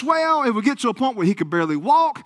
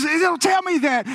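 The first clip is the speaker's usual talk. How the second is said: scared; 5 semitones higher than usual. Retold or imitated. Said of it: "he gets so scared".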